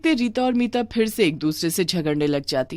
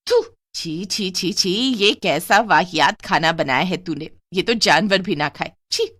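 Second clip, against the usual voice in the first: disgusted spitting. Acted. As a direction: spit out the food in contempt. Aunt disgusted by food.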